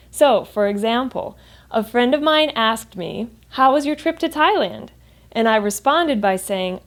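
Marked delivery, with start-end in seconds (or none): 3.5-4.9 "Thailand" lifted high then falling at the end; falling question intonation. Shown as a demonstration. Friend asking about the trip, falling intonation at the end. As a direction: ask openly, pitch climbing to "Thailand" then dropping. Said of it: "There's a falling intonation at the end".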